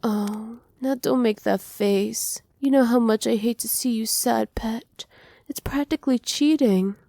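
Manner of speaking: coaxing, indulgent coo that lifts in pitch toward the end; cooing mock scolding. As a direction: give in fondly while pretending to scold. Villain soothing a pouting pet.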